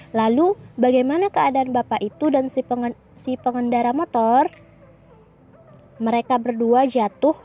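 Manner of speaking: clear, careful read-aloud of a dialogue; model dialogue reading. Shown as a demonstration. Teacher reading a dialogue aloud to her class, clear and careful. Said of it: "Ustazah akan contoh bacakan".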